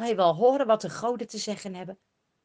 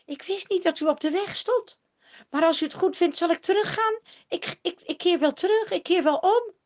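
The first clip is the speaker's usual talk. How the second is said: higher, pleading, humble voice; a frightened seer begging pardon; lightly voiced Balaam, meek and reverent; 8 semitones higher, 5 dB louder than usual. A narrator's reading. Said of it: "zegt hij eerbiedig".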